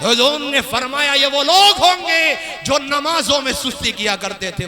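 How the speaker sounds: forceful sermon narration, sustained; preaching. Acted. Preacher warning of Judgement Day, preaching. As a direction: proclaim it to the congregation.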